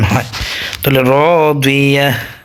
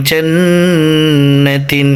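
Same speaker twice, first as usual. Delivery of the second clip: slow drawn reading; much slower than usual. Shown as a demonstration. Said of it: "teacher joins the syllables into the word".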